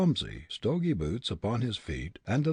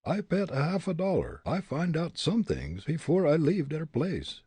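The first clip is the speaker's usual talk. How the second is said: put-on German-Dutch accented voice, pitched up; 7 semitones higher than usual. Young detective betting in a Dutch accent. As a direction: Fritz boasting in a thick Dutch accent.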